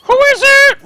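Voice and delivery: high, loud call from another room; old gnome yelling. Acted. Old gnome Jeremiah yells from the other room at the door. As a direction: shout it from the next room like a cranky old gnome. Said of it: "you hear Jeremiah yelling from the other room".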